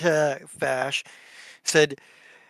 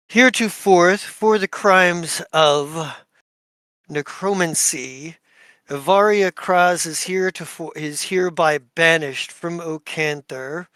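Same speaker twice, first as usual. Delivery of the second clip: formal decree. Acted. Duke banishes Avaria and Fash, solemn decree. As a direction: proclaim the banishment like a judge.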